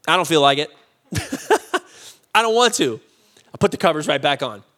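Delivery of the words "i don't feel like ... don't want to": laughing refusal. Retold or imitated.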